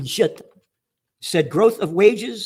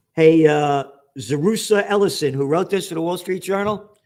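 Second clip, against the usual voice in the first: calling someone out; 4 dB louder than usual. Real, not acted. Calling out the journalist by name.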